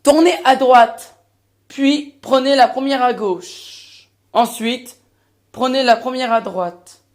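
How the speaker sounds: consignes lentes et détachées comme un GPS; voix de GPS. Acted. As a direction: annoncer la route comme une machine. Imite le GPS. (voix de GPS lente et mécanique)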